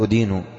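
أدين said as "udīnu", u-vowel first; wrong damma form. Shown as a demonstration. Teacher warning against the error, أدين as "udīnu". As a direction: begin أدين with "u" instead of "a". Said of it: "بالضم، خطأ".

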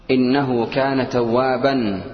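recitation. Shown as a demonstration. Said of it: "recites verse example".

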